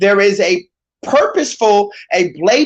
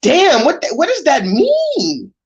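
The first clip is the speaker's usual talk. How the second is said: baffled reaction; 6 semitones higher than usual. Retold or imitated. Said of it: "I be like".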